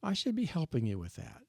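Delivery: wife's apology. Retold or imitated. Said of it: "and she'll say".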